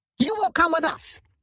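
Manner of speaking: very high, shrill, brassy voice. Narrator voicing two bats speaking in unison to Quentin: brassy high-pitched voices. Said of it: "their brassy, high-pitched voices sounding almost as one".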